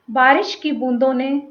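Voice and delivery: deliberate verse delivery, phrase by phrase with pauses; poem recitation. Acted. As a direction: recite the opening line, letting key words linger. Begins reciting own poem. (कविता पाठ, ठहराव के साथ)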